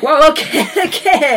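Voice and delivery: high laughing whoa; laughing backpedal. Retold or imitated. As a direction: back off while chuckling. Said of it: "And he's like".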